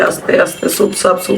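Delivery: whispered softly, as if barely speaking; imitating a hushed voice. Showing how the late sister-in-law spoke, whispered. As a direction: breathe the words out the way the quiet woman did. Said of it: "কথা বলতো একদম আস্তে আস্তে".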